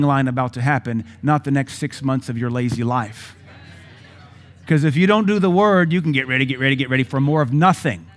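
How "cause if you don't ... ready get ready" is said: preaching loud. Real, not acted. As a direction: drive the point home. Preaching emphatic point.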